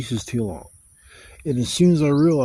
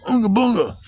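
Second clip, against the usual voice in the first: high, loud mock caveman chant; caveman grunt; 9 semitones higher, 5 dB louder than usual. Imagined wild man with a tribal stick, caveman grunt. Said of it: "tribal stick going".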